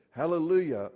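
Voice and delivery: loud Hallelujah; shouted hallelujah. Acted. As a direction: call out Hallelujah.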